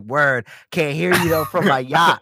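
a hint of a smug yacht owner; smug rich guy. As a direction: brush them off lazily. Yacht-owner boast bit.

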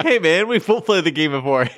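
mock the singers as cool guys; imitating the duo. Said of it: "these two are like".

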